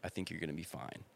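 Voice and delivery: soothing voice that drops to a whisper; soft reassurance. Retold or imitated. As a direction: talk him down gently, fading to a whisper. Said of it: "and I was like".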